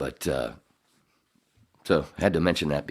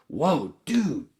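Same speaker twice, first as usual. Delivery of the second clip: woozy wonder; 8 semitones higher, slower than usual. Real, not acted. Feeling the drink kick in.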